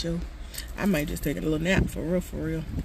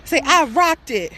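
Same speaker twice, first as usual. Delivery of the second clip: coaxing; 7 semitones higher, 9 dB louder than usual. Real, not acted. Coaching toddler to repeat.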